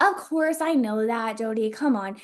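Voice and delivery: dismissive listener. Retold or imitated. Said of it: "you're like".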